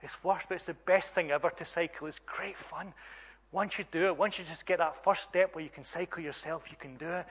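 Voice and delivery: reassuring dad, lightly acted; encouraging father. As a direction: gently urge a child to keep going. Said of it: "And I'm encouraging her".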